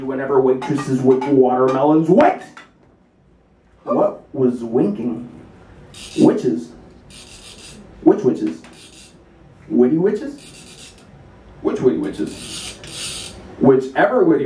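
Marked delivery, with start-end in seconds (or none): 2.1-2.4 high startled shout of wait; startled high cry; sudden cry. Acted. Sudden alarmed interruption. 11.6-12.5 hushed secretive whisper; whispered aside. Acted. Whispered after plain take.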